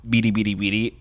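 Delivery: lightly mimicked robot babble; robot sound imitation. Quoting the robot's noise to cohosts, light imitation. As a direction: do a hint of the beeping robot. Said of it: "I actually didn't mind the".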